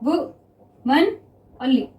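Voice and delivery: वुमनली spoken very slowly, each syllable stretched; drawn out. Shown as a demonstration. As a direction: dictate वुमनली slowly again for the class. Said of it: "ठीक, clear". (वुमनली को धीरे-धीरे खींचकर)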